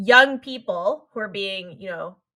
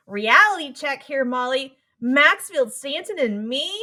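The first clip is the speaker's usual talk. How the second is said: put-on Brooklyn accent; 5 semitones higher, 6 dB louder, slower than usual. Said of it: "in her Brooklyn accent goes".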